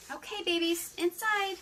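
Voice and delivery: high call to the babies; calling pets. Real, not acted. Calling the dogs inside.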